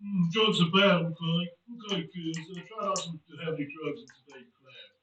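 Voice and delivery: low droning cartoon counsellor; Mister Mackey impression. Counsellor warning kids off drugs, Mister Mackey voice. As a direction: lecture the kids in a low drone. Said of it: "my name's Mister Mackey".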